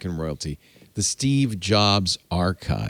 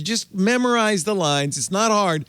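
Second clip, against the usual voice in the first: higher, exasperated scolding with a laugh in it; mock scolding; 6 semitones higher than usual. Real, not acted. Host chiding King Charles over his script, mock exasperation. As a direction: chide him in a higher pitch, half laughing.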